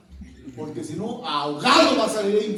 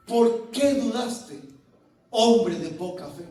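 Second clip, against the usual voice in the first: slow, deliberate rebuke; measured reproach; 2 semitones lower, slower than usual. Acted. Jesus to Peter after the rescue, measured reproach.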